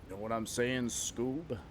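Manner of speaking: lightly voiced New York mobster; a hint of New York wiseguy, held back; restrained New York mobster impression. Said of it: "like a New York mobster".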